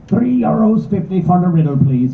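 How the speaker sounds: a round little rat-snouted creature just finishing his lunch; fair Jerig voice. Acted. Fair Jerig charges for riddle.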